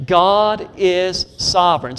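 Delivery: God is sovereign, slow with weight on God; slow emphatic declaration. Shown as a demonstration. Preacher modeling the line for the congregation, slow and emphatic. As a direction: lay heavy stress on God, slowly. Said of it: "Can you say that with me?".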